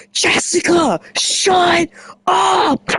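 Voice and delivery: high cracking shut up; mock snap. Telling Jessica to shut up, high mock snap.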